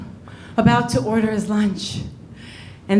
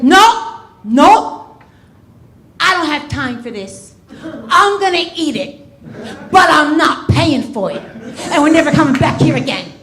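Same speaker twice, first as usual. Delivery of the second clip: petulant diner; 4 semitones higher than usual. Retold or imitated. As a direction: huff it out like a sulky customer. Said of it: "He's like".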